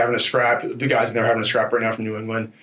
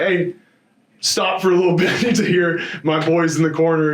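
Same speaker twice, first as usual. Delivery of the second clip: laughing; 5 semitones higher than usual. Retold or imitated. Retells telling crowd to hush.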